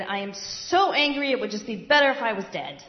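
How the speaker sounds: loud, furious complaint; angry outburst. Acted. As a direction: throw it out in a childish tantrum. Jonah voiced in a rage.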